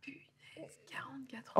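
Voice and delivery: hushed disbelief, almost to herself; stunned whisper. Real, not acted. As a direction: breathe the number out in a whisper. Stunned by her age.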